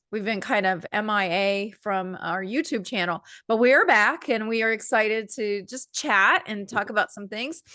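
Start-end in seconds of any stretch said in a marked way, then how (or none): 3.5-7.6 stuffy, nasal allergy voice. Real, not acted. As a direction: talk through a blocked, nasal nose. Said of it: "Pardon my nasally voice".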